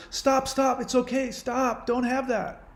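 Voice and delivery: high, anxious shushing; high-pitched mock panic, stop stop; mock panicked hushing. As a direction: imitate someone frantically hushing a crying friend. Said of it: "She's panicking".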